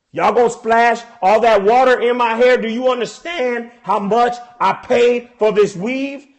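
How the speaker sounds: punchy, emphatic indignant rant; mock angry. Woman over her splashed hair, mock angry. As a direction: lean hard on each word, fed up. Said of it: "'Cause now I'm angry".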